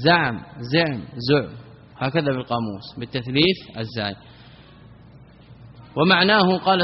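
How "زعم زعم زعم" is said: زعم said three times, with a, u, then i on the first letter; زعم: zaʿm, zuʿm, ziʿm; three vowelings. Shown as a demonstration. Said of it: "ومصدرها الزعم بتثليث الزاي". (الزعم بتثليث الزاي)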